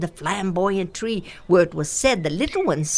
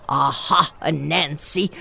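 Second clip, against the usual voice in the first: rumbling leopard; 5 semitones lower, slower than usual. Acted. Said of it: "rumbled Osibo".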